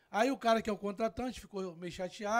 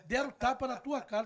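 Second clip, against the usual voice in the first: laughing; 3 semitones higher, 4 dB louder than usual. Retold or imitated. Quoting the doorman to friends, amused and laughing. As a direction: quote with a laugh in it.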